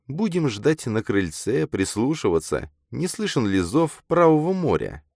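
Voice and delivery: put-on high, measured girl's voice; wistful girl character. A narrator's reading. Girl pictures their dull life together, wistful.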